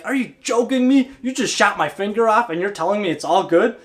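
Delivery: a touch of incredulous anger; mad king. Acted. King to the servant who shot off his finger, mildly outraged. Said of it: "the king was so mad".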